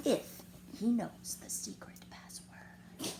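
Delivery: slow, soft whisper; hushed secret. A narrator's reading. Tia Mia hinting at the secret password, whispering slowly. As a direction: breathe it like a secret. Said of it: "whispered Rosalita".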